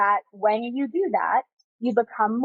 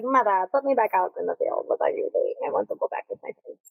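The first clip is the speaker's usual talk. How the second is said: put-on dog's accented voice; 2 semitones lower, faster than usual. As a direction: pretend voice of a pet dog with an accent. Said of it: "he has that accent for some reason".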